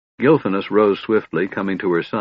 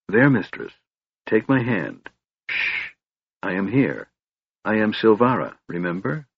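soothing; 2 semitones higher than usual. A narrator's reading. Silvara comforts her waking mistress, soothing. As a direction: hush and settle her, easing down.

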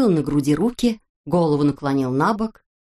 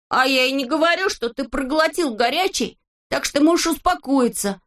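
put-on much higher, proud kid voice; boastful Neznaika; 7 semitones higher than usual. A narrator's reading. Neznaika boasts to his friends in a high voice. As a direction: show off the new poems.

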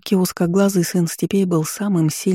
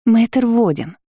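chirping; 6 semitones higher, slower than usual. Acted. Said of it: "тут же защебетала Аннет".

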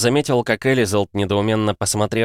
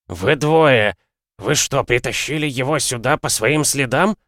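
gasping for air; 5 semitones higher than usual. Acted. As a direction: bark it out between gasps for air. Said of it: "тяжело хватая ртом воздух".

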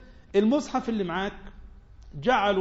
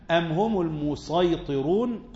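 slow recited verse; Quran recitation; much slower than usual. Acted. Teacher reciting a verse to students, slow chant.

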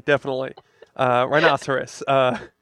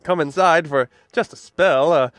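weary traveler voice. Pretend. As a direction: plead humbly at the door like a drifter. Plays a weary stranger at door.

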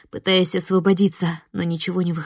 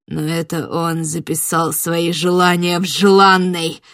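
low angry voice; 7 dB louder than usual. Acted. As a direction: spit out the grudge. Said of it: "Голос Марьяна стал неожиданно низким и таким злым". (низкий злой голос)

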